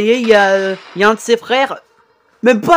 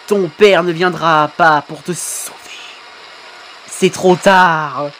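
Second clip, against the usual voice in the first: low, slow cold taunt; gloating villain; 4 semitones lower, slower than usual. Acted. Villain telling the trapped son no help comes, slow low taunt. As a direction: crush his last hope.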